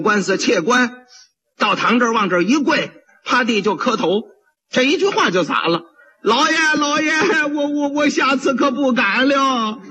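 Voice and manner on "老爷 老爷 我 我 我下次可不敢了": frightened begging. Acted. Pot seller begging forgiveness, stammering.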